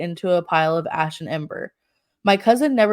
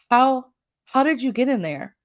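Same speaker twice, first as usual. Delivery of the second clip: frightened stammer; 5 semitones higher than usual. Retold or imitated. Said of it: "I stammered through my words".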